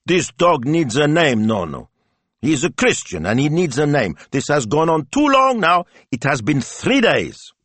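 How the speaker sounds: put-on indignant child, pitched high and loud; glowering little girl. A narrator's reading. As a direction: scold grandpa like a miniature grandmother. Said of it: "glowered like a miniature version of her grandmother".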